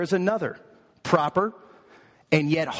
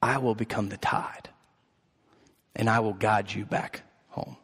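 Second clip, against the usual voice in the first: softer, lower, tender mother bunny; 6 semitones lower, 4 dB quieter than usual. Acted. Mother bunny answers her runaway little boy, soft and low. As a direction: lower your voice into a soft, reassuring promise. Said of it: "And she says".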